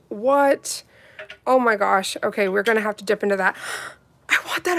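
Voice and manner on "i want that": gasp. Real, not acted. Gasps at gel colour.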